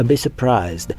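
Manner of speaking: English product name with a British accent. Shown as a demonstration. Vlogger saying the shade name for online critics, British accent. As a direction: pronounce it carefully, British-style. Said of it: "faut le dire avec l'accent".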